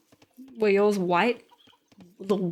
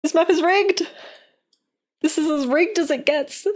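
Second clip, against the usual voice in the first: outraged shout; 7 semitones higher than usual. Real, not acted. Outraged at the map.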